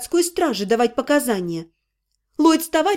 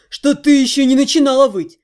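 lightly voiced half-gnome quoting her; quoting her back; 4 dB louder than usual. Half-gnome quoting the girl's threat back, lightly voiced. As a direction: toss her own words back at her. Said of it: "Ты сказала в доме исцеления".

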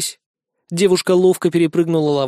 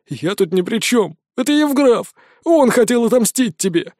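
panicked sobbing; 6 semitones higher than usual. A narrator's reading. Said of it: "Крыса всхлипнул, паник".

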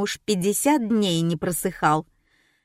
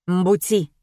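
bewildered. A narrator's reading. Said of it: "растерянно произнёс полисмен".

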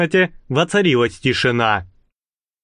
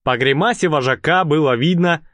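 ordinary delivery, nothing marked

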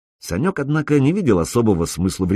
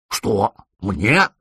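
startled, choked question; choking surprise. A narrator's reading. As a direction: splutter it in shock. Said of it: "поперхнулся Рыжебородый".

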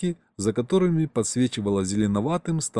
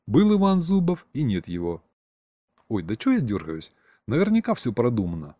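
plain reading voice

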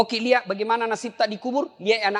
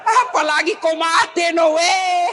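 higher, louder laughing no way; joking shout; 9 semitones higher, 5 dB louder, slower than usual. Retold or imitated. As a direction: tease the wife with a loud laugh. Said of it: "Saya bilang". (teriakan bercanda sambil tertawa)

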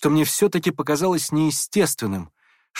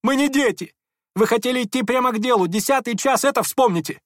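a high-pitched whining squeal; 10 semitones higher than usual. A narrator's reading. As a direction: squeal it out impatiently. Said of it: "визжал Ипполит".

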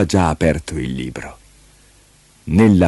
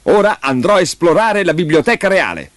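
put-on higher eager child voice; boy announcing; 9 semitones higher than usual. Leo announces exploring the library, eager child voice. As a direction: announce the plan brightly like a boy. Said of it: "annunciò quando ebbe finito".

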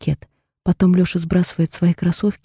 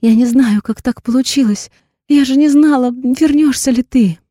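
tearful begging; 5 semitones higher, 4 dB louder than usual. A narrator's reading. Heroine begs him to stay.

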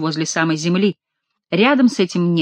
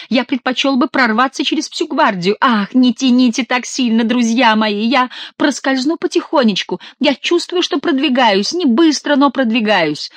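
higher, pushed voice squeezing through; straining duke; 5 semitones higher than usual. Acted. Trapped duke straining through the hole, higher strained voice. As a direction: grunt it out while stuck fast.

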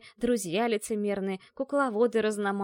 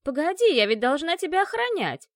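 громко и высоко; кричи вдогонку с тревогой; встревоженный крик; 7 semitones higher, 7 dB louder than usual. Acted. Кошка кричит вслед. (кошка кричит вслед убегающей девушке)

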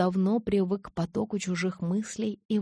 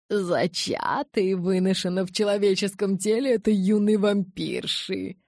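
awed elder; 2 semitones higher, 3 dB louder than usual. Acted. Aro explains in awe.

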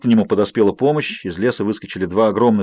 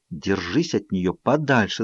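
softer, slow threatening hiss; 4 semitones lower, 5 dB quieter, slower than usual. A narrator's reading. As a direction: hiss the warning low and slow. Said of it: "зашипела я". (медленное тихое угрожающее шипение)

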